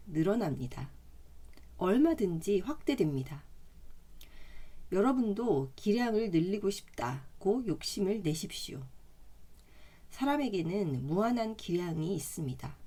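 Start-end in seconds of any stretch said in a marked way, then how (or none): none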